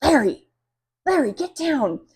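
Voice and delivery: high, loud panicked shriek; frantic high yelling at the bird. A narrator's reading. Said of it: "Missus Green shrieks".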